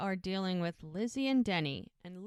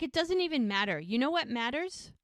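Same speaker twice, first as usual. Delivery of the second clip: higher-pitched, mildly exasperated mock yell; retold yell; 5 semitones higher than usual. Bride yells at her feuding family, mild mock yell. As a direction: raise the pitch as if fed up. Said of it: "And she's yelling at them".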